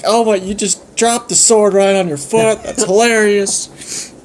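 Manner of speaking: high, gleeful mocking voice; laughing dragon taunts the hurt Philip; amused dragon. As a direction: crow with delight at his pain. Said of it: "Dragon is just cracking up".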